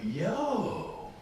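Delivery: very high, loud laughing yell; mock furious yell. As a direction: blow up at her, over the top. Yelling at daughter, comic outrage.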